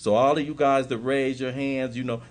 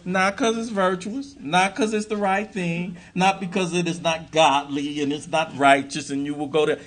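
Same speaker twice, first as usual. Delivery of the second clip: rising emphasis; 7 semitones higher, 5 dB louder than usual. Real, not acted. Building emphatic list to a peak.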